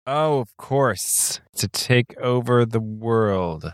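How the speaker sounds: very slow, deliberate delivery; slow and measured. Acted. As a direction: draw out every word. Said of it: "You sound different".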